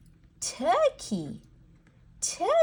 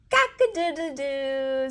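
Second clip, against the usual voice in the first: rooster crowing; 3 semitones higher than usual. Shown as a demonstration. Teacher answering what a rooster says, crowing. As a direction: crow like a rooster for small children. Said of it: "says the rooster".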